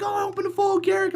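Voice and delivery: high, quick, giddy cheer; a guy who just pulled a hundred-dollar card. Retold or imitated. Neighbour cheering over his foil Garruk, high and quick. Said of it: "he's going nuts, he's cheering".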